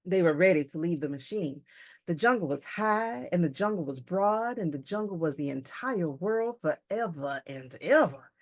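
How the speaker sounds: measured, expressive read-aloud; lightly dramatic storybook reading; story narration. A narrator's reading. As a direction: narrate the scene with deliberate, rolling phrasing.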